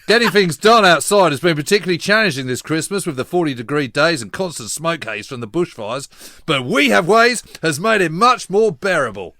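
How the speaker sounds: put-on light Australian accent reading a listener email; a mildly hammed-up Aussie read; reading out fan mail in a hint of an Australian accent. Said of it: "I'm gonna use an Aussie accent".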